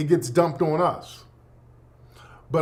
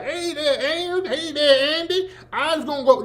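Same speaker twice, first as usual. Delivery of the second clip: much higher, laughing put-on radio voice; Amos and Andy imitation; 10 semitones higher than usual. Mocking white actors faking black voices on radio, high laughing caricature. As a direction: ham up the old minstrel radio act with a laugh. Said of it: "two white dudes pretending to be black".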